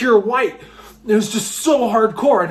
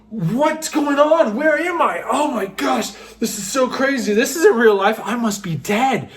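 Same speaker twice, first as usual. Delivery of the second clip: bewildered; 3 semitones higher than usual. Retold or imitated. Retold belief he had died.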